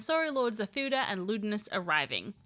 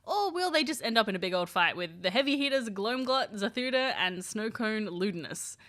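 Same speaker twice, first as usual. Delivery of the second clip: video outro. A narrator's reading. Outro read.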